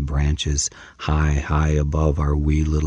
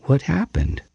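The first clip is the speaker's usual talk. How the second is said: far away; 11 semitones higher than usual. Acted. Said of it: "She sounded far away".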